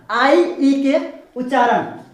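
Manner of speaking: drawn out slowly, आई stretched long and stressed; slow emphatic demo. Shown as a demonstration. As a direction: say आई ई के उच्चारण slowly, leaning hard on आई. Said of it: "अब यहाँ पे आ रहा है वही उच्चारण".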